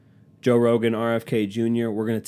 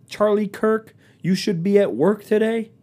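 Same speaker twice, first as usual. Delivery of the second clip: much higher, sing-song mocking of the line; mock whine; 10 semitones higher than usual. Mocking Charlie Kirk's take on working the holiday, in a much higher squeaky mock voice. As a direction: squeak it back at him like a taunt.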